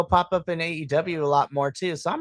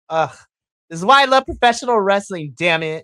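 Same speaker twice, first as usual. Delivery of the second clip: overjoyed; 2 semitones higher, 7 dB louder than usual. Retold or imitated. Fan moved by the crowd's tribute, loud gushing. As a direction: belt it out, choked with joy. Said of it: "I was just like".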